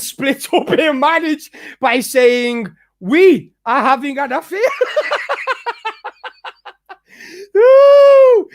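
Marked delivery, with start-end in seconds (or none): 3.0-4.6 laughing through a mocking quote. Ranting streamer laughing while mocking the quote. 4.6-6.7 a high, thin scornful laugh; high mocking laugh. Real, not acted. Streamer laughing off a rival's claim, high mocking laugh. 7.6-8.5 high loud mocking "ooh"; mock pity coo. Streamer mocking a rival with a high fake-pity coo. Mock sympathy before "that is sad.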